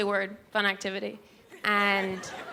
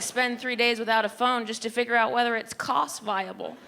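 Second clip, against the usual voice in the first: usual speaking voice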